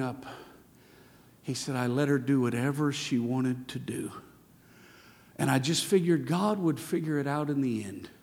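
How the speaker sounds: a hint of the weeping uncle; sorrowful confession. Uncle's tearful confession retold.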